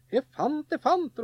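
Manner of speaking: high, loud gleeful calling out; boy shouting out his find in delight; excited shout. A narrator's reading. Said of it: "ropte han".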